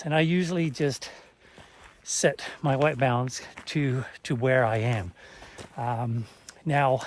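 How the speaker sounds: out of breath from walking uphill. Real, not acted. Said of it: "sorry, I'm out of breath".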